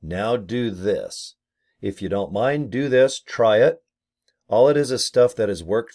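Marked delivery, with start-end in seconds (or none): 0.0-3.8 mock instructions. Shown as a demonstration. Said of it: "most of them are gonna be".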